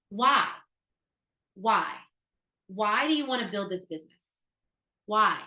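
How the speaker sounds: insistent why. Real, not acted. Presses the audience on motivation.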